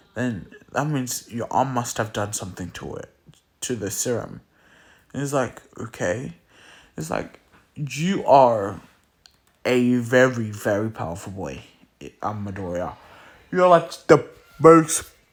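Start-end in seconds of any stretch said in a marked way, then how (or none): none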